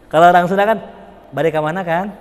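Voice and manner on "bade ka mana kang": gentle Sundanese. Retold or imitated. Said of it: "Ya, halus, halus".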